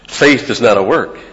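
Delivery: firm preacher's proclamation; emphatic declaration. Acted. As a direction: drive the point home to the congregation. Preacher repeats key line emphatically.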